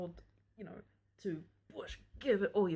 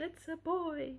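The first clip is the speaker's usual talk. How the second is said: beaming announcement; 9 semitones higher, slower than usual. Retold or imitated. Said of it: "he's beaming".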